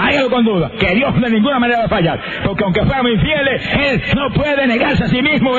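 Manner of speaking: rousing preaching. Real, not acted. Preacher urging the fearful to obey anyway, rousing preaching. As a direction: urge them on in short, punchy, repeated phrases. Rhythmic exhortation at high pitch.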